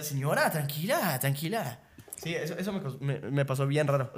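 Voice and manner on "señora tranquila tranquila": slow, drawn-out soothing; retold calming plea. Calming an agitated señora at the mall, slow and placating. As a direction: stretch it out to settle someone down.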